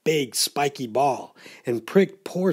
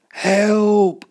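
high, loud storybook cry for help; acted panicky yell; 7 semitones higher, 6 dB louder than usual. A narrator's reading. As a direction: call out in alarm, stretching the word. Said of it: "cried the fish".

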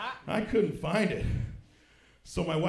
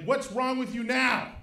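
exasperated wife; 8 semitones higher, slower than usual. Retold or imitated.

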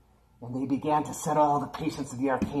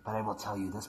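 horror trailer voice; 3 dB quieter than usual. A narrator's reading. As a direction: warn the children in a creepy hush. Spooky warning to boys and girls.

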